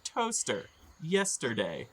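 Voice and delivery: high, nonsense words tossed off; garbled fake goblin. A badly faked goblin illusion, high nonsense. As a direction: babble random words like a bad mimic. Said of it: "somebody saying".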